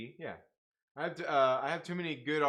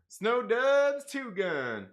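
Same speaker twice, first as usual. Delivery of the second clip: very slow, drawn-out name read; 7 semitones higher, 6 dB louder, much slower than usual. Real, not acted. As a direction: stretch each word out slowly. Reading name slowly.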